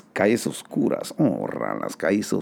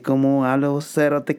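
lightly raised mock challenge; a touch of Guatemalan attitude; retold mild retort; 5 semitones higher than usual. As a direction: toss it back lightly. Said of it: "Me dice".

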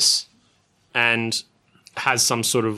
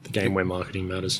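deep announcer; 7 semitones lower, 7 dB quieter than usual. Acted. Echoing host's tagline.

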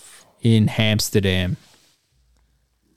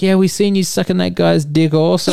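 laughing crowd reply; 8 semitones higher, 4 dB louder than usual. Retold or imitated. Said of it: "everyone's like".

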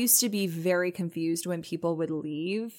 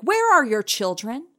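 higher, louder, drawn-out TV heckle; imitated yelling; 5 semitones higher, 5 dB louder, slower than usual. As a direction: imitate a grandma yelling at the TV, slowly. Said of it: "be yelling at the T V".

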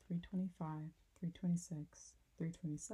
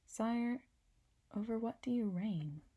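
little prince voice; 5 semitones higher, 5 dB louder than usual. A narrator's reading.

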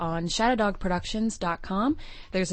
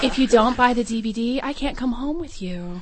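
sexy voice; 4 semitones higher, 4 dB louder than usual. Acted. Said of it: "Do your sexy voice".

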